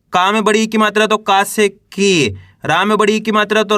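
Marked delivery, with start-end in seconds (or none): 1.2-2.4 long falling ee in की; drawn-out syllable. Shown as a demonstration. Teacher adding the long vowel to का, की drawn out. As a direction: hold the vowel of की. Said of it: "बड़ी का उच्चारण जोड़ना है".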